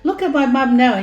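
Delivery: retold anger at the doctor. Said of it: "I got angry at the doctor".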